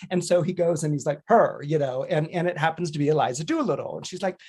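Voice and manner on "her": a sudden louder "Her"; single out the girl with one loud word; loud pointed pick. Retold or imitated. Higgins singling out the flower girl, loud.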